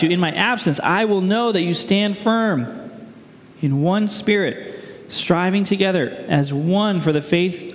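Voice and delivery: measured, solemn Bible reading; scripture reading. Acted. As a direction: read the passage aloud to a congregation. Reads the scripture passage aloud.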